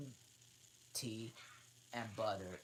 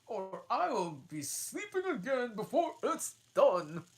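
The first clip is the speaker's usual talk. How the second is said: impatient Hatter; 13 semitones higher, 13 dB louder than usual. Acted. Hatter hurrying the Dormouse, high and loud. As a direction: snap at him to hurry.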